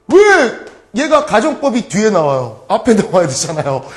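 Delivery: mock confused student. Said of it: "이런 애들 내가 봤어요".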